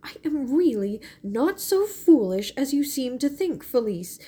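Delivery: tearful, breathy half-whisper; fighting tears, hushed and insistent; near tears. A narrator's reading. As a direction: hold back the tears as you insist. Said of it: "winking back her tears".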